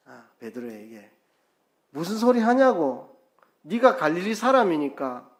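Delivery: ordinary talk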